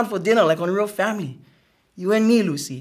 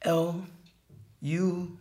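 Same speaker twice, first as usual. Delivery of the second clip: slow letter-by-letter reading; sounding out the word; 8 dB quieter, much slower than usual. Acted. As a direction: spell it out haltingly, sound by sound. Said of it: "Sounding out the word".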